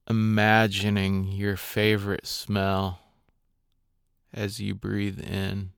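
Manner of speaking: calm, unhurried meditation guide with long pauses; guided meditation. Acted. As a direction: guide listeners gently through their breathing, leaving space between phrases.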